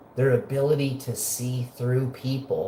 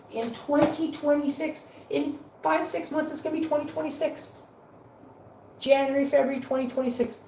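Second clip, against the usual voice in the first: incredulous; 12 semitones higher than usual. Real, not acted. Ranting about evacuation timeline.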